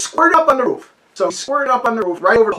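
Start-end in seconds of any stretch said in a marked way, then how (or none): 0.0-0.9 high, louder command; urgent order. Retold or imitated. Boy ordering his brother to spray the roof, high and urgent. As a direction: call it up like a kid in charge of the hose. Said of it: "and I said".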